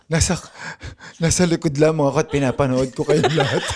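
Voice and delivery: light laugh through the words. Acted. Andres watching his friends from behind, laughing. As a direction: chuckle as you say it.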